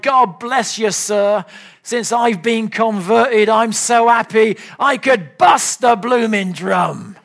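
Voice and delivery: mild imitation of a Cockney drummer, ending in a laughing shout; a light Cockney accent that bursts into a happy laugh. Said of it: "And in his Cockney accent".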